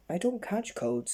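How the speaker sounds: high defiant denial; stubborn insisting. Acted. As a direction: flatly refuse to admit it.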